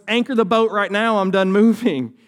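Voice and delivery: high, loud, frantic demand; panicked yelling. Acted. Pastor acts out terrified disciples in the boat, panicked yelling. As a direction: shout it out like someone who has had enough.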